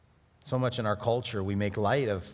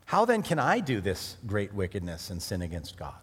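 quiet meditative reading; 4 semitones lower than usual. Shown as a demonstration. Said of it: "read the verse and, and then emphasize".

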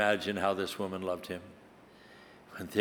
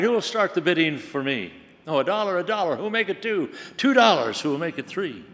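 higher, calling out the bids; lightly voiced auctioneer; 5 semitones higher than usual. Auctioneer calls for dollar bids, light calling voice.

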